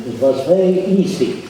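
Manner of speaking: lightly voiced German accent; faint German accent, casual and matter-of-fact. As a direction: quote the German pilot with a hint of German accent. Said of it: "with a German accent".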